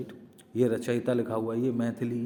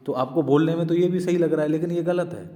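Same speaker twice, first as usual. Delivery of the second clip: emphatic; 5 semitones higher, 7 dB louder than usual. Real, not acted. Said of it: "teacher stressing the warning".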